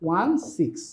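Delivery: ওয়ান সিক্স as two separate digit names; teacher modelling ওয়ান সিক্স digit by digit; digit-by-digit reading. Shown as a demonstration. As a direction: read out ওয়ান, then সিক্স, each distinct. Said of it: "এটার উচ্চারণ হবে হচ্ছে".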